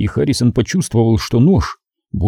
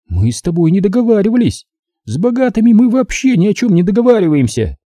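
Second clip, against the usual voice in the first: higher, taunting woman's voice full of contempt; gloating female captor; 10 semitones higher than usual. A narrator's reading. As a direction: sneer it at the rich man, pitched up. (злорадная похитительница, высоким голосом)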